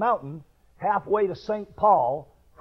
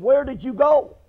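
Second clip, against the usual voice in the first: higher and louder worried question; alarmed question; 6 semitones higher, 5 dB louder than usual. Retold or imitated. Neighbor demanding where he swam, higher and louder. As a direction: press him on where he went. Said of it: "He said".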